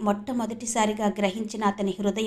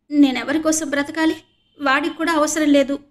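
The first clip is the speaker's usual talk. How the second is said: higher and louder, wailing in despair; crying; 5 semitones higher, 7 dB louder than usual. A narrator's reading. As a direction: cry out hopelessly. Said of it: "ఏడుస్తూ అంది సంధ్య".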